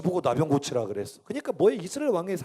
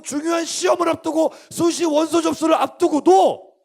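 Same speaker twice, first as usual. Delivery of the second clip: loud, high, urgent sermon voice; full-force preaching; 7 semitones higher, 8 dB louder than usual. Real, not acted. Preacher warning exam students about empty religion, full-force. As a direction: hammer each phrase at the congregation.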